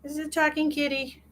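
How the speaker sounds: high, soft cutesy intro; cutesy voice showing off the cat. Real, not acted. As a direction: present the kitty sweetly.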